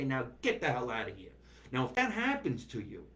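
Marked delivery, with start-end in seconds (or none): 0.0-1.3 gruff deli guy. Retold or imitated. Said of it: "and say".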